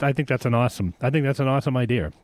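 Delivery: put-on light Boston accent on idea. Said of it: "that was my Boston accent".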